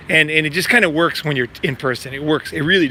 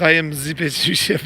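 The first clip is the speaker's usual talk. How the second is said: quoted line broken by a laugh; laughing while quoting. Retold or imitated. Quoting the French friend with a laugh. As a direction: laugh through the friend's answer. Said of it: "He says".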